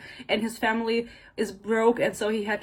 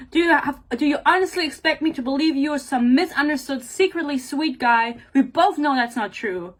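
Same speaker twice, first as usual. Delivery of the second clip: higher, emphatic acted challenge; indignant; 4 semitones higher, 4 dB louder than usual. Heroine doubting her partner is secretly sweet, indignant. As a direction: challenge him in acted disbelief. Acting out an angry confrontation from book.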